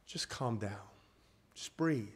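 gentle hush; soothing hush. Acted. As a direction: ease the room down. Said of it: "repeats calming phrase".

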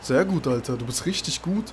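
soft, unenthusiastic mock praise; ironic praise. Real, not acted. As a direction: praise your teammate quietly, not meaning it. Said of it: "Ich höre die Ironie in deiner Stimme". (ironisches Lob, leise gesprochen)

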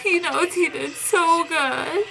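laughing through tears. Real, not acted. Fan proud of skater.

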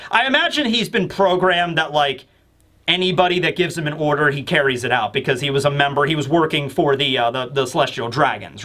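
ordinary talk

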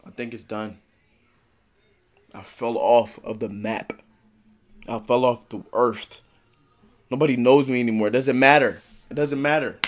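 subdued, hopeless farewell. Real, not acted. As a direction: let the fight drain out. Quiet resignation after outburst.

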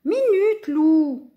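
high, loud protest; calling back. A narrator's reading. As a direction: call out to hold him off. Friends calling back to hold on.

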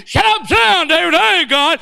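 high, shouted mimicked rebuke; worked-up, indignant shouting. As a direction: holler his words back in outrage. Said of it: "I'm getting louder and louder".

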